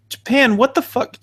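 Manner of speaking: baffled by hologram fans, slow and disbelieving; incredulous. Real, not acted. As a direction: drag it out in disbelief. Incredulous reaction to concert.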